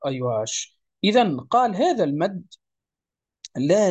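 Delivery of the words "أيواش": ordinary delivery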